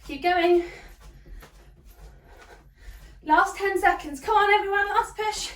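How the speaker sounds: rally them hard for the final push; encouraging coach call. Real, not acted. Coach urging class in last seconds.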